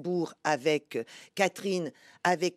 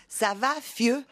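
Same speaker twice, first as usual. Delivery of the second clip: playful Belgian French accent, raised pitch; 4 semitones higher, slower than usual. Shown as a demonstration. Showing the hosts her texting style, Belgian accent. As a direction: toss it out in a light Belgian accent. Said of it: "vous adorez prendre l'accent belge".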